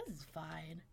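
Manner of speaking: hint of a nonchalant pet, swelling as it goes; imagined carefree dog. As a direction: build to a slow, loud last line. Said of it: "He's like".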